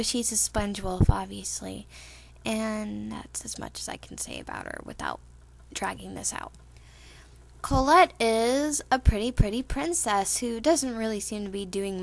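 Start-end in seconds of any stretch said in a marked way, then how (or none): 2.4-6.5 soft unvoiced aside; whispering. Real, not acted. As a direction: whisper it as a secret. Aside to listeners.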